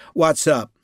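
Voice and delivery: a hint of impatience; touch of impatience. A narrator's reading. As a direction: hurry him along, a bit irritated. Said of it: "with a touch of impatience".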